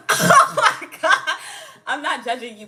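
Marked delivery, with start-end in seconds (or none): 0.1-1.4 slow, drawn-out oh my God; hammed-up dismay at a homebody; mock shock. Mock shock at staying home.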